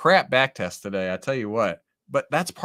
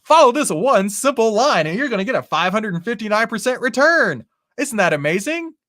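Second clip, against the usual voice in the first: high, loud, hammed-up ad voice; over-the-top hype salesman parody; YouTube ad pitch; 9 semitones higher, 7 dB louder than usual. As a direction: oversell it like a mock online advert. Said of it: "do my best impression of a, a YouTube ad".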